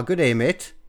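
put-on toned-down stab at an Australian accent; half-hearted mock-Aussie greeting; tentative Australian accent. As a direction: try out Australian at an ordinary pitch. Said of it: "Hold on, what's Australian?".

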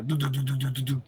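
rhythmic do do do footsteps; imitating stomping footsteps. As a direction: mimic thudding down the stairs. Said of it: "hearing me go".

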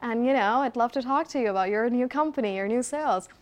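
call center persona. Retold or imitated. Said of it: "there I used to call".

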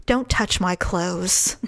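low, slow warning; retold anger, measured and deliberate; mad. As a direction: draw out a low, controlled warning. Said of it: "He had no idea I was mad".

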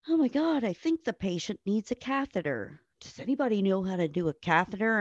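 high, flustered imitation of helpless doctors; mock panicked doctors. Doctors who can't place a catheter, mock panic. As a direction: squeal it like clueless doctors in a panic.

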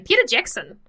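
put-on New Zealand accent. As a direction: practise a New Zealander's way of saying his name. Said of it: "two words of a New Zealand accent".

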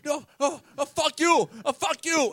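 very high, sputtering mock rage; imitated yelling. Driver cursing back at the two men, imitated yelling. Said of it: "he starts yelling".

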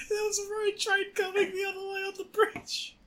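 high, breaking into laughter; crying laughing. Real, not acted. Telling the road train bit, crying with laughter. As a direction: barely get it out through tears of laughter.

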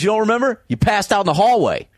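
high mock clerk asking; hotel clerk voice. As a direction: squeak it out like a startled desk clerk. Hotel guy voiced in story.

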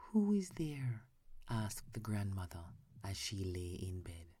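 hushed sleepy storytelling, half whispered; whispered bedtime story. Acted. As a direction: read it like lulling a child to sleep.

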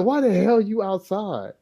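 a hint of a stern dad, drawn out; dad repeats slowly. Father asking his son again why he's out, slowly. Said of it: "He said".

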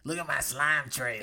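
soft, low slug voice; cool cartoon slug. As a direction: play a slug showing off, quietly. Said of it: "like, a really cool slug".

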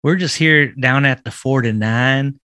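light Southern accent for a mock radio ad, folksy and friendly. Podcast host doing a joke commercial on a dare, light Southern accent. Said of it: "Do it in, in a Southern accent".

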